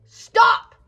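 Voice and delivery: very high, loud yelp; sudden shout. Real, not acted. Vlogger interrupting herself on camera, shrieked outburst. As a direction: burst out with a piercing exclamation.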